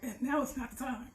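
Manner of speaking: strained voice between coughs; choking, wrong pipe. Real, not acted. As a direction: talk through a choking tickle. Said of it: "something went down the wrong pipe".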